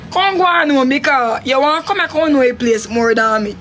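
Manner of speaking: fed-up woman yelling at her man to go home; retold shout at Roy. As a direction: shout him out of the house. Telling Roy to leave.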